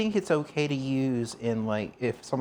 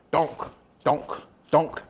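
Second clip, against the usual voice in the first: penguin donk; 2 semitones higher, 3 dB louder, much slower than usual. Pretend. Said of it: "we do something like this".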